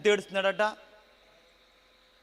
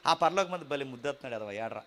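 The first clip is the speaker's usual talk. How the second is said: mock cruel God; 4 semitones lower than usual. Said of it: "అంటాడు అనుకుంటున్నారా".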